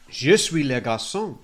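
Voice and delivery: lightly voiced little boy from an advert; child in French advert. Host quoting Muzzy advert boy, light child voice. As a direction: say it like a kid in a language tape. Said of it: "two kids on the advert that went".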